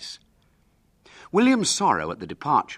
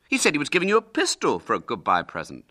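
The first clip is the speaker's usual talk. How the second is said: quick, high-pitched protest; a touch of boyish indignation; indignant; 6 semitones higher, 4 dB louder, faster than usual. Acted. William disputing Hubert's claim to the knife, indignantly. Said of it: "said William indignantly".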